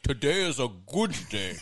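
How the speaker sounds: Aussie "Today is a good day"; lightly voiced Australian; teasing Australian accent; mock Australian. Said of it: "Dan gets it".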